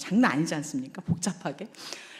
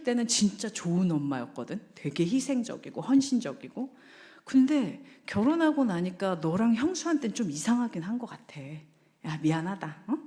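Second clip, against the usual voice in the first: sincere apology. Retold or imitated. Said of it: "뭐라고 해야 되냐면".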